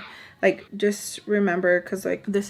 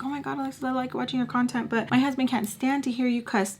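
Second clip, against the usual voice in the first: soft, higher mock-polite fan voice; imitated viewer; 4 semitones higher, 3 dB quieter, faster than usual. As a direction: mimic a sweetly complaining follower.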